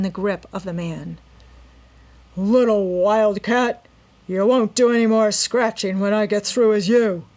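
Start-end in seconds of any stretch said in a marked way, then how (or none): 2.4-7.2 menacing villain. A narrator's reading. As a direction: threaten her with cruel relish. Robber threatening struggling Nancy.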